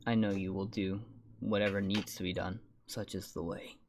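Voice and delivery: put-on old man voice. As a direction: speak as a frail old cleric. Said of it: "my old man voice slipped".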